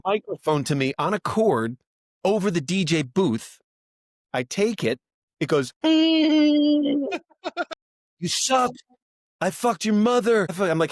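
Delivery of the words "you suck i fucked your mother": high, jeering crowd voice; mock heckling. Audience member abusing the opening comic, high mock heckle. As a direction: imitate a heckler hurling abuse.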